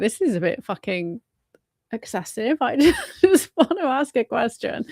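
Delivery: laughing through the words; a laugh breaking into the retort; laughing incredulous. Retold or imitated. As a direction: giggle out the complaint. Laughing at the excessive welcome.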